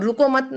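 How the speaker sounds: "रुको मत" run together as one unit; रुको मत joined. Shown as a demonstration. Teacher explaining not to stop, "रुको मत" joined. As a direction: say "रुको मत" unbroken, before the comma. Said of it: "यानी कि रुकना नहीं है".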